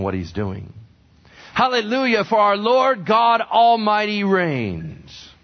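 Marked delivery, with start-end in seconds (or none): 1.5-5.3 high, loud, slow proclamation; preacher's rousing cry that God reigns; proclaimed shout. Retold or imitated. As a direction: ring it out over the crowd. Quoting the multitude's shout.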